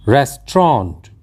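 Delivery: रेस्टोरेंट said as "res-tront", two syllables; correct pronunciation. Shown as a demonstration. Teacher gives learners the correct word, carefully pronounced. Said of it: "इसका सही उच्चारण होता है".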